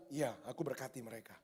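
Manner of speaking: low, soft voice of God. Pretend. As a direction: answer gently from above. God answers the prayer. (suara Tuhan yang rendah dan lembut)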